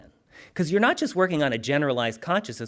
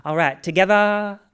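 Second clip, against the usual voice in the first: put-on Southern accent; 6 semitones higher, 6 dB louder than usual. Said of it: "she has that Southern accent".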